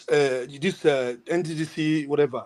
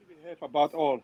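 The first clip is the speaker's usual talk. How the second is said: patchy, uneven volume; breaking up on a bad line; audio cutting out; 5 dB quieter than usual. Real, not acted. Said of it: "Your, your audio is going, cutting in and out".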